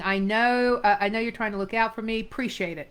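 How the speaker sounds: brisk, curt brush-off; clipped and curt. Shown as a demonstration. Acting teacher reads Eddie brushing off concern, curt and clipped. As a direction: cut it short and move on. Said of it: "You can tell that especially on the ending".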